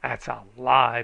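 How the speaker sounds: loud angry bellow. A narrator's reading. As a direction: bellow it right back at him. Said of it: "bellered a man from gunstock".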